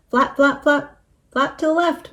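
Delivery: high, urgent repeated command; yelling. A narrator's reading. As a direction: yell out directions in alarm. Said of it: "Moo yelled".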